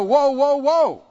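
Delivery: loud, startled whoa whoa whoa. Pretend. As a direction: pull yourself up short. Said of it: "You need to go".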